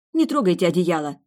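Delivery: hissed. A narrator's reading. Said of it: "шикнула".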